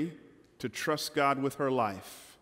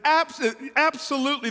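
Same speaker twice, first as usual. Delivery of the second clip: hesitant eager yes; 11 semitones higher, 4 dB louder than usual. Acted. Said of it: "the man responds".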